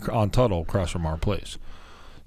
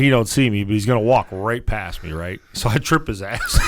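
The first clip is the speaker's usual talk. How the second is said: ordinary talk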